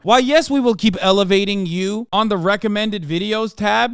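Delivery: voicing YouTube begging him to continue; fawning YouTube. Streamer mocking YouTube's reward, gushing fawning tone. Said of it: "YouTube was like".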